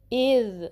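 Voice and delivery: इज़ with tongue tip on upper teeth edge; इज़ ending on a held dental buzz; hamza joined to dhal. Shown as a demonstration. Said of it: "हमज़ा को फिर आपने जाल से मिलाना".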